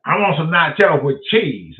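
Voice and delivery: imitating the date's loud order; loud mock girl voice ordering nachos; a loud, hammed-up impression of the date ordering snacks; her voice. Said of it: "this how she talked".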